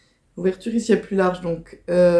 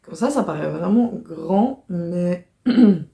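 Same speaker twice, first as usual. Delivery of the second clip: throat catching mid-sentence; frog in throat. Real, not acted. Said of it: "j'ai un truc dans la gorge".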